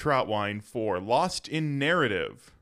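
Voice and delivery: slow, formal radio news read; newscaster voice. Pretend. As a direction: announce it like a public radio anchor. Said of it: "a nice newscaster voice".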